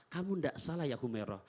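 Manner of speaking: low, soft, kind reply; gentle reassurance. Retold or imitated. Prophet reassuring Aisyah, soft and low. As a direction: reassure her softly. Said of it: "Apa kata Rasulullah?".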